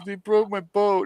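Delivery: high-pitched mock whine; whining. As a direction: whine like an upset little girl. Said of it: "she's whining".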